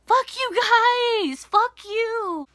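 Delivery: high, loud fuck you; retold high, loud curse at the bosses; high yell. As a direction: fling it at them with a high yell. Yelling at bosses.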